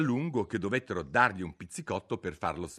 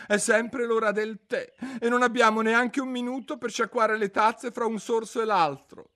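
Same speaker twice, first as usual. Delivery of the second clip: 1 sighing; 8 dB louder than usual. A narrator's reading. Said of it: "con un sospiro".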